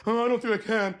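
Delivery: mock insecure whimpering; Jey Uso. Wrestler answering encouragement with mock self-doubt. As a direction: imitate him doubting himself. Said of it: "insecure Jey Uso run".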